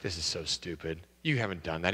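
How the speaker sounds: low, soft, unimpressed wife. Acted. Wife dismissing the husband's claim, low and unimpressed. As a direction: scoff at the husband's nonsense, quietly.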